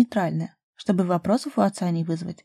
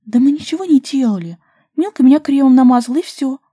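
higher and much louder, flustered; taken aback; 6 semitones higher, 9 dB louder than usual. A narrator's reading. Daria defending herself to Ruslan, flustered and surprised. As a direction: blurt it out, caught off guard. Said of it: "опешила Дашка".

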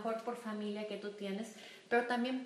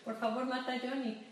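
mock pleading prayer. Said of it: "todos los días vas a pedir".

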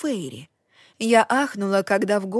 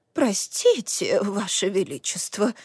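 stammering. Acted. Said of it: "запинаясь".

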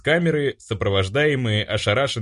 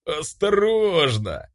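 strained croak; 6 semitones higher, much slower than usual. Acted. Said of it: "сдавленно прохрипел он".

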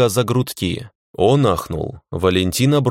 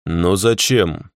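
calmer; slower than usual. Acted. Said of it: "Уже чуть спокойнее спросил я".

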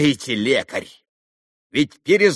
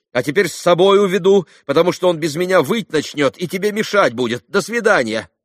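rapid patter; 5 semitones higher, 6 dB louder than usual. A narrator's reading. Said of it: "проговорил он скороговоркой".

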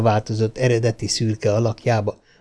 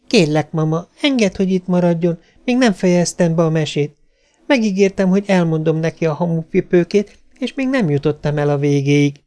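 put-on higher-pitched little girl begging; pleading child; 6 semitones higher than usual. A narrator's reading. Girl begs mother to let Robbi stay, pleading. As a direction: plead earnestly on a friend's behalf. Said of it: "Glória a védelmére kell".

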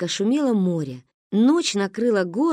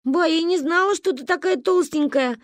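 giggling; 9 semitones higher than usual. Acted. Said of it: "прыснула я".

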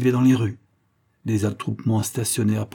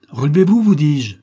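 much higher and louder, a cry; dying son's desperate cry; desperate shout; 6 semitones higher, 9 dB louder than usual. Acted. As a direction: scream it at him in anguish. Dying son begs his father.

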